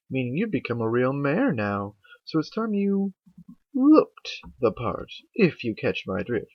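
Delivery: drawn-out, knowing lady's voice; Rarity, suggestive. Acted. Rarity hinting that Twilight should look the part, slow knowing voice. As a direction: linger on the key words, hinting.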